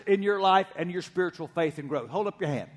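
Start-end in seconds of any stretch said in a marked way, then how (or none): 2.1-2.7 softer, lower repeat of the request; quiet repeat. Real, not acted. Pastor repeats the request to the congregation, softly. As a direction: say it again gently, almost to yourself. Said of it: "almost everybody in N R H is holding up their hand".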